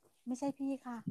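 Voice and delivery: a hushed, polite "ไม่ใช่พี่ค่ะ"; quiet quoted denial. Retold or imitated. Quoting the woman's denial to her, said very softly. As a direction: drop to a near murmur for the denial. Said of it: "เขาบอก".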